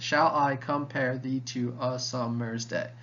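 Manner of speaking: slow, evenly measured line; measured recitation. Shown as a demonstration. Teacher repeating the sonnet line for students, measured recitation. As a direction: recite it steadily, syllables lightly separated.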